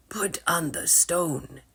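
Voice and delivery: slow hushed whisper; whispered instruction. Acted. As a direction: whisper it slowly. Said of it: "Griffith said".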